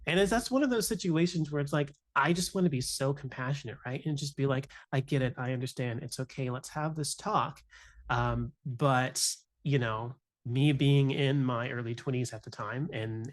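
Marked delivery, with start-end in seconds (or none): 4.9-7.6 gentle comfort. Retold or imitated. Comforting crying student.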